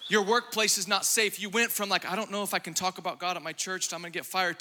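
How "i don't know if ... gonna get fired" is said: quick, softer nervous murmur; a hint of a scared mom at church; timid worried mom. Timid mother worried about church, mock nervous murmur.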